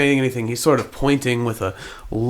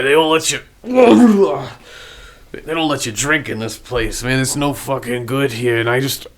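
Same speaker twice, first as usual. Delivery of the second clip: lightly voiced drunk character; a hint of drunken grievance; drunken, confused bum; 2 semitones higher, 4 dB louder than usual. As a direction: play a befuddled drunk explaining himself. Game master plays drunken, confused Harry.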